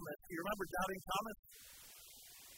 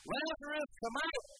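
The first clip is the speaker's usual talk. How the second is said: calling Lazarus out of the tomb, raised voice; Jesus calling a dead man out of the grave; loud call; 7 semitones higher, 4 dB louder than usual. Acted. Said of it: "Jesus cried out in a loud voice".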